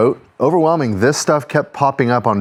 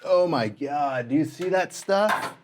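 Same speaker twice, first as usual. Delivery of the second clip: hushed disgust; 7 dB quieter than usual. Real, not acted. Disgusted by rotten goo.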